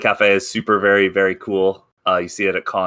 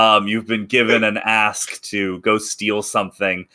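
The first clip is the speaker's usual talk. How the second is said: dramatic narration. A narrator's reading. GM scene setting.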